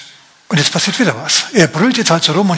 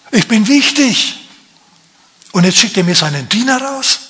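indignant Naaman; 3 semitones higher than usual. Acted. Naaman offended inner monologue.

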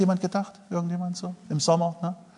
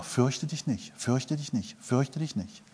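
soft; 11 dB quieter, slower than usual. Acted. God's word quoted softly.

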